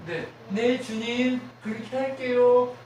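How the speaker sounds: a loud, slow, eager yes to the Lord; eager obedience. Shown as a demonstration. Preacher shows the church how to answer God, eager and loud. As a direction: say yes to God with your whole chest. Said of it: "우리의 전쟁의 승리 방식은 뭐예요".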